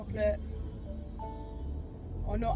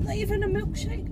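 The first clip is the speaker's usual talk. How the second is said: high coaxing question; mock-persuasive high offer; imitated tempting sister; 10 semitones higher, 4 dB louder than usual. Retold sister tempting her.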